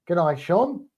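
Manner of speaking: put-on Aussie with rising end; Australian accent. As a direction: lilt it up like a pretend Aussie. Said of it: "That's how I want you to all sound".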